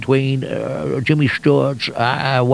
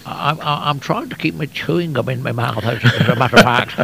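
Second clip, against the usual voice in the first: Jimmy Stewart. Acted. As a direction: stammer gently, words held in the mouth. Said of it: "that becomes Jimmy Stewart".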